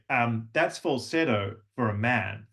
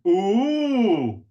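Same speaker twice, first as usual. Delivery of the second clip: much higher, louder ooh; impressed ooh; 8 semitones higher, 7 dB louder than usual. Shown as a demonstration. Teacher admiring a student's work, louder ooh. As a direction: swoop up impressed. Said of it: "There's another one".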